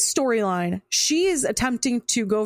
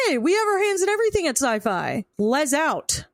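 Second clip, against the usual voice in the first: higher, faster, smug corporate voice; smug studio exec; 6 semitones higher than usual. Retold or imitated. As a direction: brag like a sneaky producer. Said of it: "They said".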